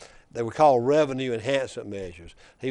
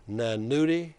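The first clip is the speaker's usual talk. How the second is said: put-on Wallace's Black Belt accent. Wallace lecturing Nudie over the gas tax, in a mild Black Belt accent. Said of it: "he says in that deep black belt accent".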